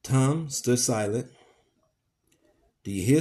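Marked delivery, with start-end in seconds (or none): 2.8-3.2 loud barked demand; roar. Acted. Legree roaring at silent Tom, loud demand. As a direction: roar it like an incensed lion. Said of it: "stamping with a roar".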